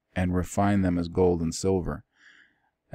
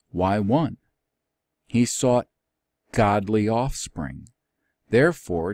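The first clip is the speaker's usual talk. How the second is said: raised, emphatic Bible reading voice; scripture reading; 2 semitones higher, 3 dB louder than usual. Acted. Teacher reads the modern translation to the class, in an emphatic reading voice. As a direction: proclaim the verses with weight.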